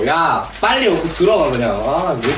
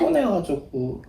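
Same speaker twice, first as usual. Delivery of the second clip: 작고 느리게, 나긋하게; 피곤한 듯 얌전하게 늘여서; 내숭 전화 목소리; 6 dB quieter than usual. Real, not acted. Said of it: "누나 목소리 왜 그래?". (평소와 다른 조용한 전화 목소리)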